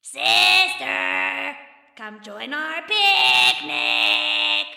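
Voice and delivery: high, slow, drawn-out goblin call; a goblin chasing the girl, calling after her. Acted. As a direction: sing it out to lure her back. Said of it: "calling out to her".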